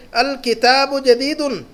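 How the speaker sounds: الکتاب جدیدن read slowly, syllable by syllable; the teacher spells out the sounds for the class by voice; slow Arabic model reading. Shown as a demonstration. Teacher reads new Arabic phrase to class, slowly and clearly. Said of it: "لفظ ہے نیچے".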